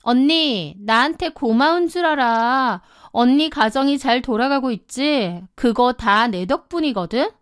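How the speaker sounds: smug taunting. Acted. Younger sister claiming credit for her sister's marriage, smug. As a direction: needle her as if she owes you.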